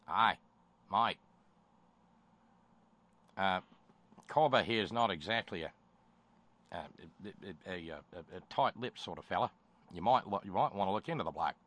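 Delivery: a light, hammed-up Australian accent; mock Aussie tipster, only lightly put on; terrible Australian accent. Host imitates diplomat tipping off FBI, in a light Australian accent. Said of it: "I did the terrible Australian accent again".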